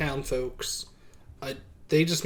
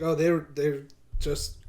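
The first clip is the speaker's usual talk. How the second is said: monotone voice; 4 dB louder, slower than usual. Acted. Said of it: "still with the monotone voice".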